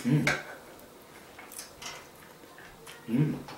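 humming while chewing food; closed-mouth murmur with food; mouth full chewing. Real, not acted. Seen 0: Mouth closed, chewing chicken; hand at lips removing bone.

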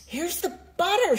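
high eager shout. A narrator's reading. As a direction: announce the butter to mother. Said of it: "shouted Jack".

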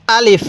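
brief, even আলিফ with no lengthening; unstretched আলিফ. Shown as a demonstration. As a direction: say আলিফ short, without drawing out either vowel. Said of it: "এরকমভাবে শিখবেন".

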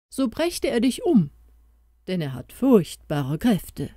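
lightly voiced mouse king giving urgent counsel; little mouse voice. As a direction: warn him earnestly, a small creature raising its voice. Mouse voice held.

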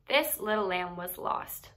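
gentle storybook read-aloud; animated picture-book narration with character voices; reading to children. A narrator's reading. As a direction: tell it like a bedtime story for kids.

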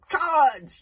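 loud furious yell; angry yell. Acted. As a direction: hurl the insult. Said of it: "yelled Kamikaze".

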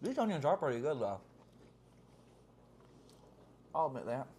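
chewing while talking; eating and speaking; mouth full of pizza. Real, not acted. Seen 3: Small wide shot; both diners eat pizza, speaker likely the woman.

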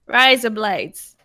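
put-on Australian accent. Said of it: "trying to Australian".

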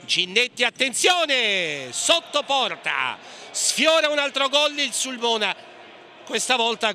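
excited near-miss call; rising urgency at the goalmouth; breathless italian goal commentary. Real, not acted.

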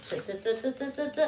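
repeated soft t- sounds as a hint; sounding out t. Shown as a demonstration. Teacher hinting Tuesday to kids, sounding out t-. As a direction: tap out t- t- t- to cue the word. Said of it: "What day comes after Monday?".

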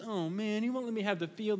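mock sulk of a spoiled child told no; pouting king. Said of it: "he's really pouting".

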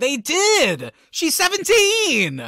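shocked and appalled, voice shooting up; outraged disbelief. Real, not acted. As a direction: friend protesting in disbelief about the actress's age. Outraged about the film's treatment.

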